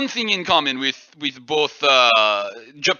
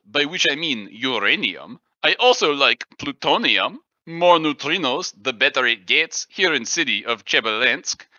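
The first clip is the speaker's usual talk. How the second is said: mock-Russian poem recitation; poem recital; 3 semitones lower than usual. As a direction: recite comic verse in a Russian accent. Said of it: "This is called Day in Chevelinsk".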